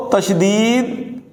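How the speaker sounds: تشدید drawn out, doubled sound stressed; teacher stressing the doubled sound in تشدید; slow model word. Shown as a demonstration. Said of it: "ہم اس کو".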